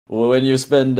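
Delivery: put-on accidental light French accent. Player answering in character, accidental French accent. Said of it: "why am I doing a French accent?".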